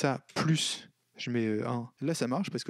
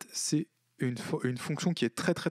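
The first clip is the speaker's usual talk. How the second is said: ordinary talk, nothing marked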